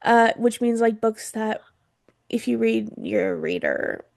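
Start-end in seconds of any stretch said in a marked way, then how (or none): 2.3-4.0 sarcastic. Acted. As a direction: say it with a knowing sarcastic edge. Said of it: "Sarcastically, she says, with a glint in her eye".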